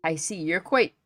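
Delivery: loud, high, eager chef explaining himself; food-mad chef justifying why he climbed into the barrel; excitable chef. Acted. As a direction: defend your hunger with gusto. Chef explains getting stuck.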